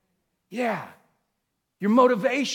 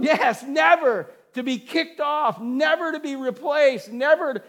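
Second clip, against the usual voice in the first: elated; 5 semitones higher than usual. Retold or imitated.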